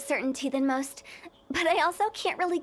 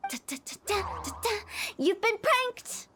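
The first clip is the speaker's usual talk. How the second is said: playful reveal; 4 semitones higher than usual. Acted. Prank reveal fanfare.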